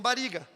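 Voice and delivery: "bariga" with one tapped R; southern single R. Shown as a demonstration. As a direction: say "bariga" as in the Italian-settled south. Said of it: "a galera do sul fala". ("bariga" com erre fraco, do sul)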